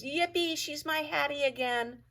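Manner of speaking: joyful squeal of relief; overjoyed. A narrator's reading. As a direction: burst with puppy joy. Dog overjoyed Hattie returns.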